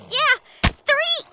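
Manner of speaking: high, loud gleeful correction; playful shout of the number; excited retort. Acted. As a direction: toss it back with glee. Correcting the count, teasing.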